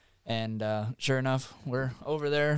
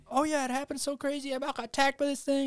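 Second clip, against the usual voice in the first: high, breathless-sounding imitation of thrilled news; excited caller. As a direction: gush it in a very high voice. Acts out excited caller's rushed account.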